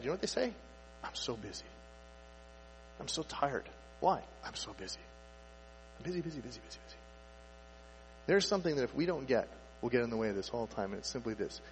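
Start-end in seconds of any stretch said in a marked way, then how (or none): 1.0-7.0 low, soft, drained sigh of busyness; mock exhausted muttering; weary complaint. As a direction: sound worn out and tired. People answering how they're doing.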